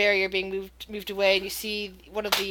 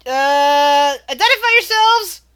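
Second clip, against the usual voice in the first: loud, high guard shout; shouted challenge; 6 semitones higher, 13 dB louder, slower than usual. Acted. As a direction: bark a challenge through the door. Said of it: "muffled voice from the other side".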